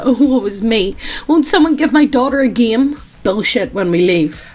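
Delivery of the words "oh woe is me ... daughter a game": mock self-pity. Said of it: "giving the ... bullshit".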